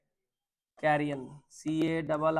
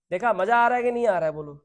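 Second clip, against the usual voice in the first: excited; 3 semitones higher, 5 dB louder, faster than usual. Real, not acted. Teacher rousing class.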